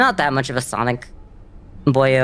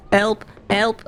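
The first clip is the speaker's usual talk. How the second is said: mock cry for help; 8 semitones higher than usual. Panicked call in game.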